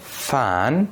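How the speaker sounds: "فن" with an airy, voiceless f at the start. Shown as a demonstration. Teacher has students feel the difference, voiceless f in "فن". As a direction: say "فن" with the first sound unvoiced, as f.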